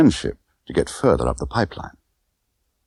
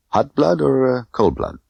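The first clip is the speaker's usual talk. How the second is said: Tiffany voice; 7 semitones higher than usual. Acted. Tiffany questioning Bond.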